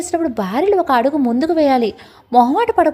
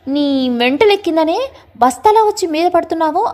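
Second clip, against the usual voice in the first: irritated raised voice pushing her off; mock shout; 4 semitones higher than usual. Husband shoving off his wife, a mild raised yell. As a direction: yell at her for crashing into him. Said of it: "అని అరుస్తాడు".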